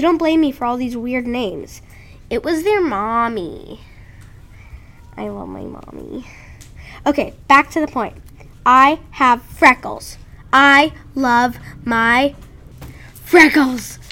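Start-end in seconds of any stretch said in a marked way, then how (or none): 2.3-6.3 slow hushed whisper. Real, not acted. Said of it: "I have to whisper it". 8.7-14.0 slow, loud and proud; proud declaration. Real, not acted. Proudly declaring her freckles.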